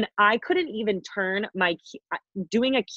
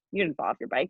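softer retold call-out; imitating knowing manager; 3 semitones lower, 6 dB quieter than usual. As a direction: drop the volume, as someone seeing through a lie.

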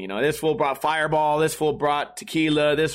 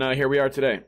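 ordinary talk, nothing marked

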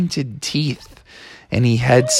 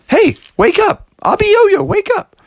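much higher loud wake-up call; 4 dB louder than usual. Pretend. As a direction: yell him awake. Shaking sleeping monster awake.

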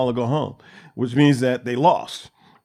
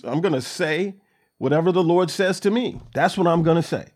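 raised, emphatic stubborn insistence; defiant prophet; 5 semitones higher than usual. Retold or imitated. Prophet insisting to the king he'll say only God's word, defiant. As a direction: dig in and refuse to budge.

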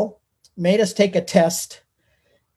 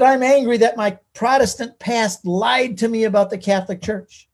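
imitating an indignant wife, pitched a little higher; emphatic retold grievance, higher voice; mildly acted anger; 4 semitones higher than usual. Retelling wife's complaint about her Protestant past, mildly angry. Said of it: "Why are you angry?".

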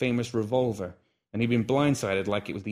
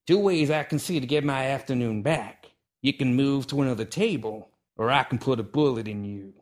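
annoyed; 4 semitones higher, 4 dB louder than usual. Acted. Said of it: "annoyance beginning to squeeze his".

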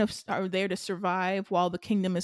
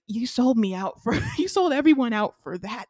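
indignant accusation; 3 semitones higher, 5 dB louder than usual. Retold or imitated. Betrayed king confronts the man who sold him out, indignant.

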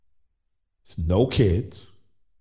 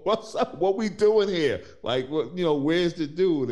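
much higher, louder teasing nag; grandparent side; 12 semitones higher, 3 dB louder than usual. Retold or imitated. Father teasing adult daughter about settling down, mock grandparent nag. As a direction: playfully push her like an eager would-be grandparent. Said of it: "this grandparent side of me is like".

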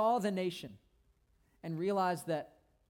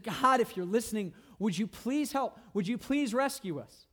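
raised, pleading voice, mildly acted; imitated crying out; 4 semitones higher, 5 dB louder than usual. Suffering people crying out to God, imitated plea. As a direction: voice a plea for rescue, pitched higher. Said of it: "they cried out to God".

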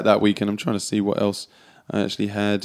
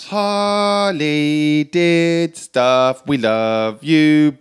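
slow, loud, high announcer voice; mock announcer; 6 semitones higher, 7 dB louder, much slower than usual. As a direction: boom it out like a host.

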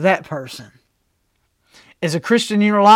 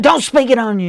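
scolding relative; 6 semitones higher, 3 dB louder than usual. Retold or imitated. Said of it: "They're like".

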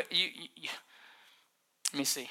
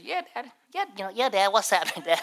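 innocent son; 3 semitones higher, faster than usual. Retold or imitated. Voicing son answering innocently.

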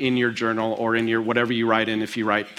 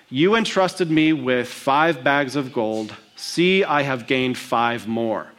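slow servant report; slower than usual. Acted. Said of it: "Notice his emphasis".

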